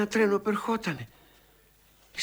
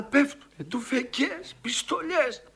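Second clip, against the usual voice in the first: raised, urgent cry at the peak; agitated outcry; 4 semitones higher than usual. Acted. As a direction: relive the gunfire and cry out. Frantic war memory, gunfire everywhere. (ταραγμένη κραυγή)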